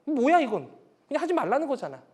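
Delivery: mock the parent's empty words; scoffing child. Child dismissing the parent's loving words, scoffing. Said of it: "그럼 아이들은 앞에는".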